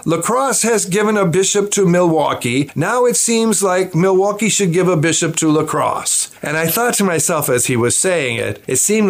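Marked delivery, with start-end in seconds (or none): 0.1-6.3 higher-pitched imitation of a nuncio; Archbishop Sambi. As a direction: make a pronouncement as the church dignitary, pitched up. Acts out nuncio's explanation.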